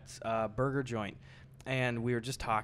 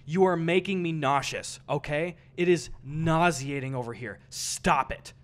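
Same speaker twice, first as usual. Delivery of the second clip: mock stern complaint, firmly emphatic; imitating an indignant diner; 4 dB louder than usual. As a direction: act out an overdramatic telling-off. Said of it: "this is his tone, I'm not exaggerating".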